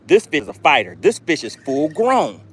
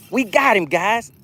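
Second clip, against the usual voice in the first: excited; 6 semitones higher than usual. Real, not acted. Excited catch on stream.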